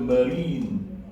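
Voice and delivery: marine with the I drawn as a long "ee"; long "ee" in the second syllable of marine; long E sound. Shown as a demonstration. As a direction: say marine as muh-REEN, holding the vowel. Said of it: "it's a long E sound".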